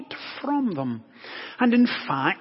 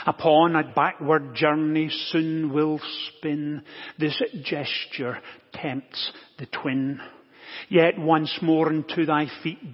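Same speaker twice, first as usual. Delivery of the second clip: hammy stage actor. Acted. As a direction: declaim it like a Shakespearean actor. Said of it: "here is my attempts at The Hokey Pokey by William Shakespeare".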